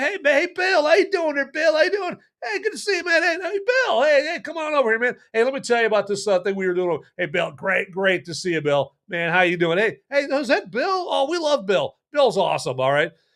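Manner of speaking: gushing, very high, bouncy, cheerful, glad voice. Acting out neighbors at a barbecue greeting the husband: imitating neighbors glad to see him. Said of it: "they're all like".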